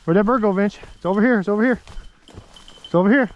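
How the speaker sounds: urgent, pointing out the bird; excited call. Real, not acted. Excited about found bird.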